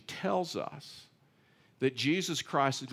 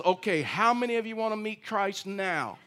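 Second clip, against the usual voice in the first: higher, laughing invitation; 6 semitones higher than usual. Retold or imitated. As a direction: tease them with a grin you can hear. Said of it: "and I says".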